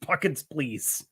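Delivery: laughing plea. Real, not acted. Begging viewers for watch hours.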